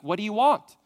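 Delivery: put-on a kid snapping at a parent who called; mock annoyed "What do you want?"; impatient kid. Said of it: "they're like".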